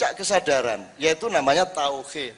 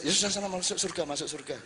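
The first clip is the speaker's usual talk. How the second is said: softer, offhand send-off; quiet dismissal; 9 dB quieter than usual. Pretend. God quietly sends the devotee off to heaven. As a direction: wave them off gently.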